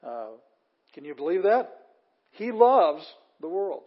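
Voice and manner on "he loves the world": LOVES swooping high, long and loud; high, emphatic LOVES, "the world" falling away; stress on LOVES. Shown as a demonstration. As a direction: belt out the word loves, slowly. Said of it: "That's the emphasis".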